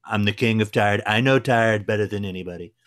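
a light take on the Trump voice, barely shifted from his own; Trump impression. Teasing Mark, who is staying up late, in a light Trump voice. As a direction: boast about being tired the way Trump would, understated. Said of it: "I'll do it here".

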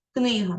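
"Книга" with the stress on КНИ; stress on first syllable. Shown as a demonstration. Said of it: "на першому складі".

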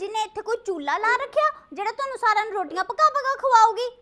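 dramatic loud aunty. Acted. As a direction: scold like a fussy aunty teacher. Teacher scolding student dramatically. (ਨਾਟਕੀ ਉੱਚੀ aunty ਵਾਲੀ ਝਿੜਕ)

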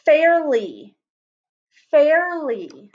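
fairly, said slowly with the air sound drawn out; teacher modelling fairly. Shown as a demonstration. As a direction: stretch fairly so the air is heard. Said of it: "let's try".

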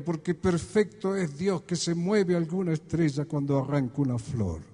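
measured, rhythmic verse recital; poem recitation. Acted. Singer reciting his philosophy of life to an audience, poem recitation.

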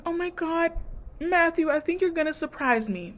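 high, gushing imitation; mock giddy girl. Imitating A D gushing to Matthew, high and giddy. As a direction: gush it like a giddy girlfriend. A D's giddy reply retold.

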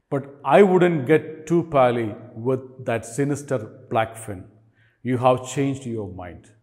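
measured, emphatic classroom poem reading; poem recitation. Acted. Teacher reads an Australian animal poem to students, lightly dramatic recitation. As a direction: recite it line by line, pressing the key words.

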